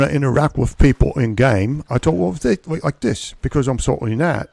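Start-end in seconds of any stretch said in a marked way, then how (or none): 1.9-4.5 light pirate accent, pitched higher; a hint of salty old sea dog; showing off his pirate character's voice; Salty Nat pirate accent. Shown as a demonstration. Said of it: "Salty Nat talks like this".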